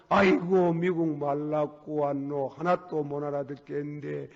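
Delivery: lightly acted son wailing, slow; son lamenting. Son thumping the floor in a mild mock lament. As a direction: drag out the complaint. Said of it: "저거 봐, 안에서 막, 땅을 두드리고 탈기를 하는 게".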